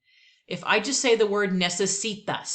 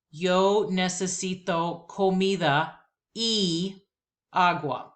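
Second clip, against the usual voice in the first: slow repeat-after-me Spanish; slower than usual. Shown as a demonstration. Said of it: "Here we go".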